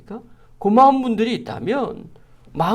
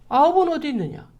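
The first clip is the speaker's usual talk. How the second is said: higher-pitched reproachful questioning; 6 semitones higher than usual. Retold or imitated. Jesus asking after those who did not come, reproachful. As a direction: ask it as a rebuke, voice raised in pitch. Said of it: "안 온 사람을 책망하는 것처럼 물어보세요".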